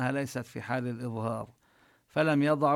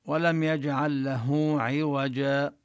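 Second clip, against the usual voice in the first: slow chanted recitation of the verse; tajweed recitation demo; Quran recitation; 4 dB louder, slower than usual. Shown as a demonstration. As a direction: recite slowly, giving each letter its due. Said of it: "أحيانًا يستثنى من القاعدة أمور".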